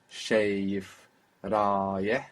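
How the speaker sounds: Shayif and rayeh each with a short vowel on the end; small vowel on the end. Shown as a demonstration. Teacher modelling the small final vowel. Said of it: "And then we have a small vowel on the end".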